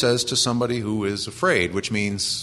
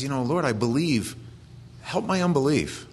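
lightly voiced father pleading, a bit higher; a hint of a struggling father asking for faith; desperate father; 4 semitones higher than usual. Preacher voicing the father of the possessed son, mildly higher and pleading. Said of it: "And the guy says".

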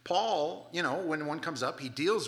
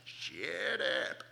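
stern command; 2 semitones lower than usual. Retold or imitated. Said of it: "what you yell to the dog on the back porch".

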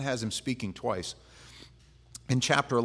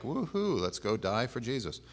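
sarcastic. Acted. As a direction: cheer it sarcastically. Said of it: "he was being sarcastic".

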